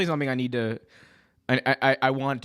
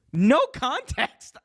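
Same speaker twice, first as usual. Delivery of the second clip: slow, high, stretched out No context; drawn out; 12 semitones higher, much slower than usual. Shown as a demonstration. Telling the viewers the clip is unexplained, slow and drawn out. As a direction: drag out the words No context for effect.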